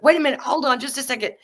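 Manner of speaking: half-yelled call to stop; screaming back. Retold or imitated. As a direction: teller yelling back at the landlady to hold on. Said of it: "I just started screaming back at her".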